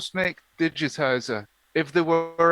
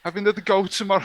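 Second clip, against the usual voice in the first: higher, badly faked Scouse; bad Scouse accent; 5 semitones higher, much faster than usual. Reading the quiz verdict, poorly attempted Scouse accent. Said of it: "I can't do a Scouse accent".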